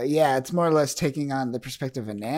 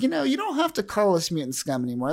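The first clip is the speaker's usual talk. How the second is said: robot friend voice; 6 semitones higher, faster than usual. Retold or imitated. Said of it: "he's just like".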